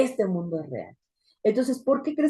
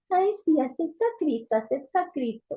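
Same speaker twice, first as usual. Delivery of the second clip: macabre mocking tone; 8 semitones higher than usual. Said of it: "ella se reía macabramente y le decía".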